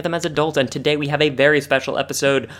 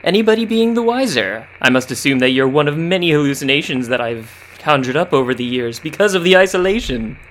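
hermit voice. Acted. Improvised hermit character.

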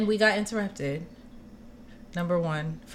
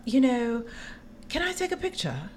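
gushing fan; 5 semitones higher, 4 dB quieter than usual. Retold or imitated. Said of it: "she's like".

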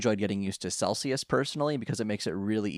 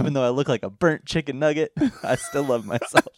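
laughing Vine quote; 3 semitones higher than usual. Retold or imitated. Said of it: "I say".

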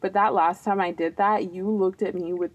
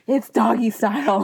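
said out clearly and a little louder; firm, more projected admission; pushing past shyness; 3 semitones higher, 4 dB louder than usual. Real, not acted. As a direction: repeat it boldly after mumbling. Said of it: "I'm pushing past my introvertedness".

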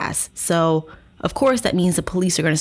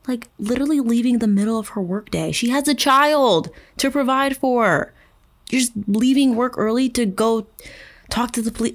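incredulous; 5 semitones higher than usual. Real, not acted. Incredulous commentary.

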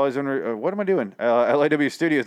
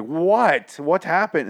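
baffled outburst; 6 semitones higher, 4 dB louder, much slower than usual. Retold or imitated. Host acts out his baffled reaction.

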